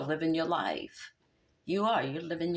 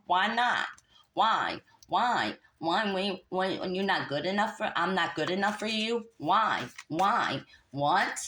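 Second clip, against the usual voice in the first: whiny crybaby; 2 semitones higher than usual. Retold or imitated. Mocking the man who won't commit, in a whiny crybaby voice. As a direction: whine it like a crybaby.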